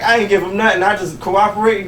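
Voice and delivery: ordinary talk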